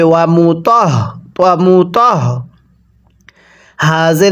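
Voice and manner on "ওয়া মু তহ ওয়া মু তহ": তহ with a breathy throat sound on হ; correct way, demonstrated. Shown as a demonstration. Teacher showing students the right reading, audible throat h. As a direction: push a little throat air into the হ of তহ. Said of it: "একটু আওয়াজ করতে হবে".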